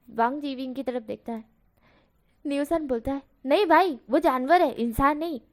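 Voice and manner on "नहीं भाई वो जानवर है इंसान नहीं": louder teasing jab at a friend; loud mocking retort; teasing shout. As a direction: shout the tease over him.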